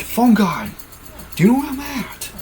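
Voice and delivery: squeaky radio caller voice; high character voice. Acted. Caller on walkie-talkie asks where he is, high voice.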